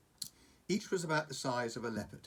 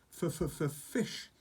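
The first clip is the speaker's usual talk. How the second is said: hissing dragon; 5 semitones higher than usual. Acted. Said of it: "hissed Toothless".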